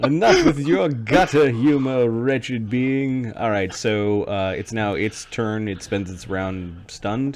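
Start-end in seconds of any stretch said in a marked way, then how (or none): 0.0-3.3 high, loud, haughty scolding tone. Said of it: "Icon responds to that sort of language".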